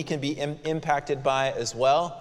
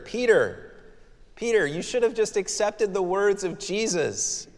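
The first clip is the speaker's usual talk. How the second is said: mom's gentle scolding; 5 semitones higher than usual. Retold or imitated. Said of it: "I can hear my mom's voice".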